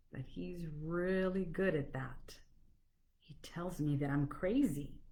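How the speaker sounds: measured verse with pauses between lines; poetry reading. Acted. Author reading her jab poem to viewers, poetry reading. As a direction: recite it line by line, letting each land.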